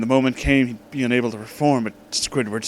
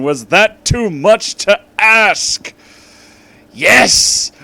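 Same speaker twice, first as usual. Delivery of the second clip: dramatic; 8 semitones higher, 8 dB louder, much slower than usual. Acted. Dramatic reading climax.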